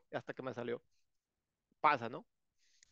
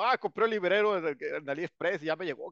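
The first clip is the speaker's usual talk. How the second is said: mock buyer. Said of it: "Que tú vas y compras".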